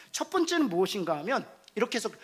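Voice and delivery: ordinary delivery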